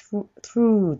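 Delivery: "through" with a long held oo; lengthened vowel. Shown as a demonstration. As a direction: stretch out the end of "through". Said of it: "と伸ばして". (「through」を長く伸ばす)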